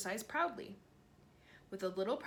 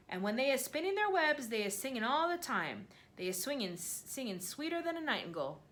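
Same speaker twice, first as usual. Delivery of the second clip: higher, rapt giant voice; the giant carried away with wonder; lightly voiced enthusiastic giant; excited BFG; 4 semitones higher, 4 dB louder than usual.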